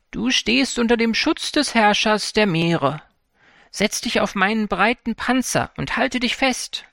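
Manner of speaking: calm his doubts kindly; reassuring turtle. Acted. Giant turtle to the worried fisherman, reassuring. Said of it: "die Schildkröte beruhigte ihn".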